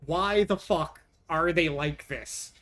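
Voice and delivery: slow, drawn-out furious question; exasperated anger. Real, not acted. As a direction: vent the disbelief at the cats. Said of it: "I'm furious at these little assholes".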